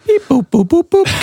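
high beeping robot noises. Pretend. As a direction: beep like a toy robot. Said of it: "Can you do a, uh, a robot noise".

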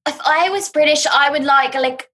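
put-on refined British English; refined British accent. Shown as a demonstration. Showing co-host her British accent, refined. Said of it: "a more refined British accent".

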